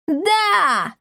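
high cheering yell; crowd roar. Acted. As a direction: roar in agreement. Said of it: "взревела толпа".

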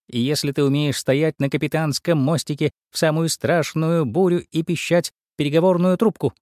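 ordinary delivery

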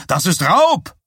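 high, loud outcry; shouted protest. A narrator's reading. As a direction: cry robbery in protest. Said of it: "schrie der Schausteller". (empört geschrien)

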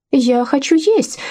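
put-on high, drawn-out childish whine; whiny, petulant. A narrator's reading. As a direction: stretch it out like a spoiled, demanding woman. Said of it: "капризно протянула Анна".

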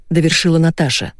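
plain reading voice

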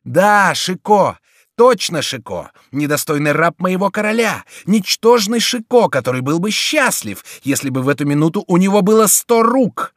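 high loud gloating; furious triumphant cry; triumphant fury. A narrator's reading. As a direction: proclaim it as you strike. Chico triumphant beating.

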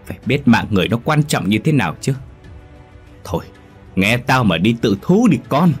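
father refusing to cover for his son; firm and stern. Acted. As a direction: stand firm, do not give in. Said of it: "Ông Tị cứng rắn nói".

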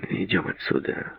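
very soft, surly grumble; grumbled. A narrator's reading. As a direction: grumble it under your breath. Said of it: "буркнул Дэвид".

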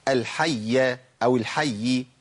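الحية أو الحي said slowly, sounding each ending after a double y; slow demonstration of الحية أو الحي with doubled y released; voweled endings. Shown as a demonstration. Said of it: "هي أصلًا إيه".

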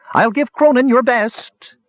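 high slow far-off call; distant call. Acted. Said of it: "voice already distant".

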